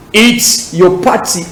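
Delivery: slow British English, crisp T in "party"; measured British accent demo. Shown as a demonstration. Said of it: "Accent britannique".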